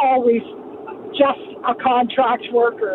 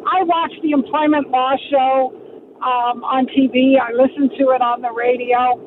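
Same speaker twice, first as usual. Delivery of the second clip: car speakerphone. Real, not acted. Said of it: "I'm driving hands-free".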